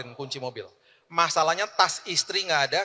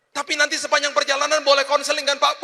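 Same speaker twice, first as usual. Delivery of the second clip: tearful high voice, much higher; crying driver; 12 semitones higher, 7 dB louder than usual. Retold or imitated. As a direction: play the weeping driver pleading. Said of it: "Dia nangis". (sopir menangis terharu, suara tinggi)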